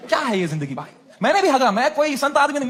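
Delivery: ordinary talk, nothing marked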